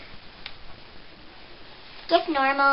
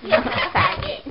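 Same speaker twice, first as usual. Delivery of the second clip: higher squeaky helium taunt; 5 semitones higher, 6 dB louder than usual. Real, not acted. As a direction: tease on helium. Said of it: "what do I look like".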